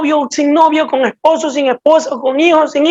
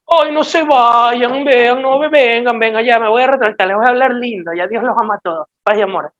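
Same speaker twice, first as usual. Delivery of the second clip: mock pleading Jesus. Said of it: "Qué hizo Jesús".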